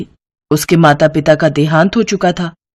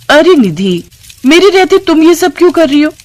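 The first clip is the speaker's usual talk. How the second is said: lightly sugared concern; affectionate sister-in-law; 9 semitones higher, 3 dB louder than usual. Acted. Sister-in-law finds Nidhi cooking in the kitchen, affectionate. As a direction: fuss kindly over her, mildly. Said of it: "प्यार से पेश आने लगी".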